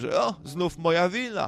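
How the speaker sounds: high-pitched, sarcastic little quip. Quoting a man's habitual catchphrase, retold sarcastic remark. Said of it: "tak sarkastycznie".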